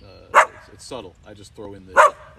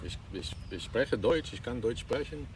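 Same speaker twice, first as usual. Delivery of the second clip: put-on German accent; 5 dB quieter, slower than usual. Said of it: "If you're doing a German accent".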